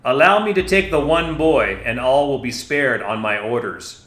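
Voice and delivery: loud, high commanding shout; shouted demand. Acted. Commander demanding the boy from villagers, shouted. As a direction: bark the order over the crowd. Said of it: "Darstad shouted".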